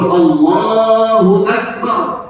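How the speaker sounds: "Allahu Akbar" with a held vowel and distinct glottal onset on "Akbar"; pronounced hamzah. Shown as a demonstration. Teacher shows how it is said here, "Allahu Akbar" with clear hamzah. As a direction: draw out "Allahu", then start "Akbar" cleanly. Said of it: "Di sini disebut".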